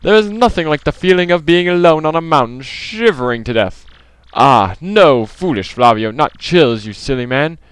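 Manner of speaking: high, grandiose foreign-sounding trader; pompous rich trader, theatrical. Acted. Rich trader lamenting his empty life, melodramatic. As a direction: declaim it with melodramatic swoops.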